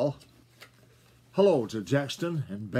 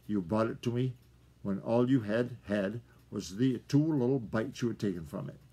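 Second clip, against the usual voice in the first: gentle. Acted. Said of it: "sound so gentle".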